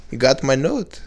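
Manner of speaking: mock foreign accent with rising questions; lightly hammed-up accent; accented Ivanka. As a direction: put on a comic accent, puzzled. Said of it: "sound like a male with an accent".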